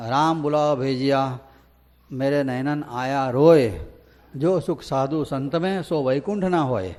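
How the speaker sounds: slow, measured recitation of a devotional couplet, leaning on રામ; slow devotional doha recital; recited couplet. Shown as a demonstration. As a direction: chant the doha slowly, giving રામ weight. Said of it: "ચોપ દોહરો છે".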